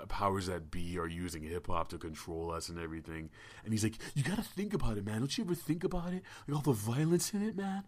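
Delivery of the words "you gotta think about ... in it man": a stranger's voice, higher and rising; high-pitched kid voice. Retold or imitated. Weird kid approaching him outside the bar, high-pitched voice. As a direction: play the odd kid, asking high. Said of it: "a high-pitched voice".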